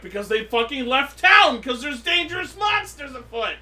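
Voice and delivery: loud, high explanatory rant; mock exasperation. Podcaster explaining why the characters left town, mock exasperated. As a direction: build to a hammed-up cry of alarm.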